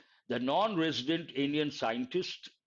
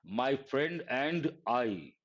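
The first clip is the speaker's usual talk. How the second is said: My friend and I, said very slowly; drawn out model answer; slow correct answer; much slower than usual. Shown as a demonstration. Teacher giving the class the correct sentence slowly. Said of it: "What is the correct sentence".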